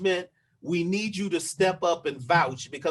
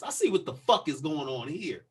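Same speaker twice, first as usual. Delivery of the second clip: measured, pointed retort in a slightly lower voice; pointed realization; 3 semitones lower than usual. Retold or imitated. Man showing how he answered the officer, controlled pointed retort. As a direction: spell it out with restrained indignation. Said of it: "I said it just like this".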